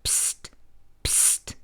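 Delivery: soft unvoiced psst; whispered psst. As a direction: hiss it to wake a sleeping friend. Waking a friend at night.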